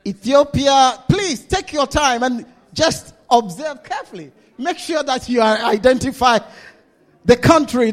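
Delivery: loud call across the hall to Ethiopia. Real, not acted. Preacher calling loudly to the congregation to stand. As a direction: project it out to the back rows, unhurried.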